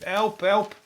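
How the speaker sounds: high-pitched pretend cry from inside a TV; hammed-up high plea; mock shout for help. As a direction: call to your mates to save you. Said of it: "shouting to their other celebrity mates".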